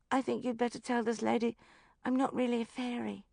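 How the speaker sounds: put-on high, even little-girl delivery; level child voice. A narrator's reading. Child addressing Bridget about the fairy lady, level. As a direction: state it evenly, unimpressed, as a child. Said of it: "looking at me levelly".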